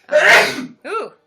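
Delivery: loud explosive sneeze; big sneeze. Real, not acted. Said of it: "He has the loudest sneeze".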